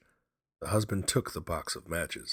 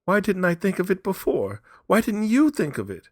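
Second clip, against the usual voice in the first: high, loud frantic questions; hysterical; 12 dB louder than usual. A narrator's reading. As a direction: throw the questions out in a frenzy. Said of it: "she said hysterically".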